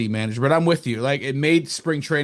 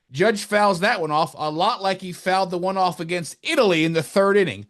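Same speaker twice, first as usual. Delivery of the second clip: Joe Davis impression; 5 semitones higher than usual. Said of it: "his famous thing will be like".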